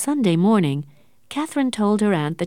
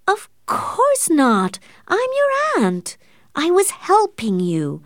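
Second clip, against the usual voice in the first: very high, louder, slow indignant shout; shouting back; 13 semitones higher, 4 dB louder, slower than usual. A narrator's reading. The aunt defending herself to Catherine, shouting back. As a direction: protest shrilly that she only helped. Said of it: "Missus Penniman shouted back".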